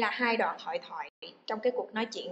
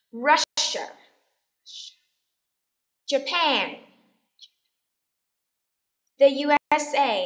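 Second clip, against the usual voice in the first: loud, clear words with long pauses; teacher's drilling voice; model for repetition; 3 semitones higher, 7 dB louder, slower than usual. Shown as a demonstration. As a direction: project each one for the class to echo. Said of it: "listen and repeat after me".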